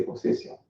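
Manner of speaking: POSSESSION said the French way, with a hissed S; French pronunciation. Shown as a demonstration. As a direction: say "possession" à la French, double S as S, never Z. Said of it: "will never pronounce the double S like a Z".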